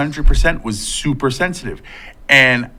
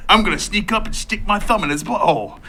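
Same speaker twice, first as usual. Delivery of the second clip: higher, amused mock Australian; Australian accent; 4 semitones higher than usual. Joker as wildlife host sneaking up, mock Australian accent. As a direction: narrate the stunt as a pretend Australian. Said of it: "Just say it in an Australian accent".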